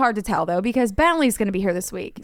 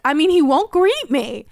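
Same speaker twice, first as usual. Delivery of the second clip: slow, higher mock-pitiful plea; hammed-up wounded complaint; mess, not crying; 5 semitones higher, 4 dB louder than usual. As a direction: whine it as if nearly crying. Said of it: "I wasn't crying, but I was literally like".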